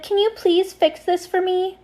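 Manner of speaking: whiny plea. Retold or imitated. Friend begging narrator to fix her fight, whiny. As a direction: plead like a needy friend.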